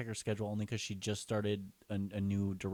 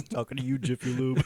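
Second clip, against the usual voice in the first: calling out; 4 semitones higher, 9 dB louder than usual. Pretend. Calling out a sponsor.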